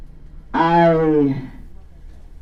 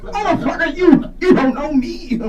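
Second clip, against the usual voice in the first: high diva voice, slow on the last line; Jennifer Lewis; 10 semitones higher, slower than usual. Retold or imitated. Comic playing Jennifer Lewis in a mock argument, high. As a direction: square up like the diva. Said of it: "argument with Jennifer Lewis".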